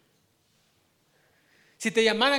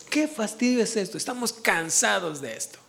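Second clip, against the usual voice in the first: weary contempt. Retold or imitated. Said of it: "Miren la actitud a la que llegaron".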